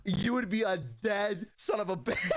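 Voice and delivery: hammed-up outraged mother; furious mom. Angry mother voiced.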